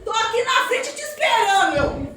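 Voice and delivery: a driver shouting out the window; calling out. Retold or imitated. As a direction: call out to her that you're waiting.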